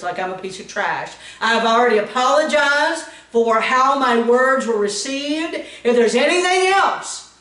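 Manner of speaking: kill her with kindness, sweetly sassy; loud, sassy sweetness with a steel edge; sassy but sweet. Retold or imitated. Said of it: "the sassiest, kind and sweet, loudest voice".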